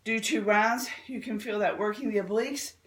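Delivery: a little short of breath; breathless between exercises. Real, not acted. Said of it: "I'm just short of breath here this morning".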